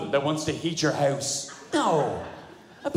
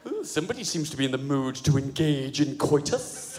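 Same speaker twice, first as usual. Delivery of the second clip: irritating tease; 4 semitones lower than usual. Retold or imitated. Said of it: "in an irritating way".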